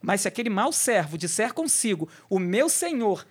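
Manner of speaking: measured, solemn Bible reading; scripture reading. Acted. Pastor reading Matthew aloud to listeners, solemn and measured.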